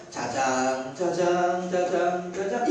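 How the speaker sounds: put-on mother patting her baby to sleep; lullaby hush. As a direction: lull the baby to sleep softly. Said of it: "가슴을 톡톡 치면서 토닥토닥 하면서".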